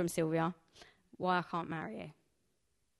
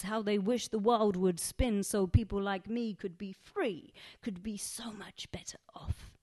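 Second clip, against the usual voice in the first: whisper. Acted. Wistful aside within the poem.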